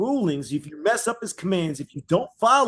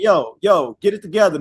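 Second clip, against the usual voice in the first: firm call-out; 5 dB louder than usual. Retold or imitated. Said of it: "He's saying".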